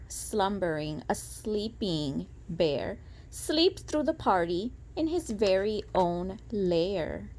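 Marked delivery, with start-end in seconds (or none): 0.1-3.0 sleepy hush. Shown as a demonstration. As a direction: lull it softly like a sleeping bear. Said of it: "a slumbering bear".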